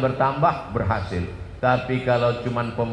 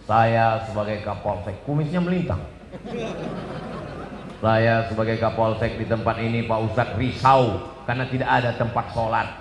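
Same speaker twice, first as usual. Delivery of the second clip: a lightly voiced pompous police chief; police chief speech; 2 semitones lower than usual. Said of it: "kata sambutan dari Bapak Kapolsek". (suara Kapolsek berpidato)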